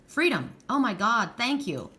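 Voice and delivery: acted relief. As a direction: voice someone finally feeling understood. Voices someone's relieved breakthrough.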